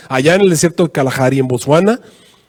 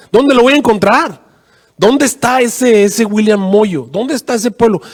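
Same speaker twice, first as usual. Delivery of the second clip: raised pitch, searching questions drawn out; pleading prayer; 6 semitones higher than usual. Retold or imitated. Secuba asks God where to find the man, pleading. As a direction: act out perplexed pleading. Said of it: "cayó de rodillas y comenzó a orar".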